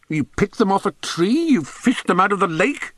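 high-pitched mocking questions; scornful disbelief. A narrator's reading. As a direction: grill the pupil with rising incredulity. Headmaster's sarcastic interrogation of pupil.

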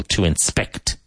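"inspect" with SPECT stressed; to in-SPECT, teacher's model of "inspect"; stress on second syllable. Shown as a demonstration. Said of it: "Emphasis on the second syllable".

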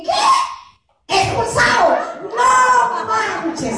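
very high startled cry, then the verdict; outraged disbelief. Retold or imitated. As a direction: shriek it like you can't believe it. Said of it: "mi hijo le hace así como que". (incredulidad aguda y escandalizada del hijo)

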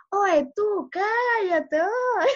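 a kid brother's mock shush dissolving into giggles; laughing rebuke. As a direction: try to hush him but break up laughing. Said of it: "Y Anthony decía".

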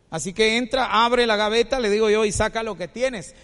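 loud, firm retold orders; firm command. Shop owner directing an armed robber, loud firm command.

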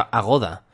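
Agoda with the accent on the middle syllable; stress on GO. Shown as a demonstration. Podcaster guessing the site's name, Agoda stressed on GO. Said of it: "así que es Agoda".

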